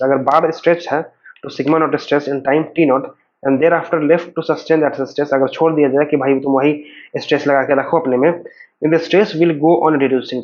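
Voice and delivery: very slow, deliberate definition read; slow dictation reading. Acted. Teacher dictating a definition to students, slow and measured. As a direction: read it out word by word for notes. Reads definition slowly from slide.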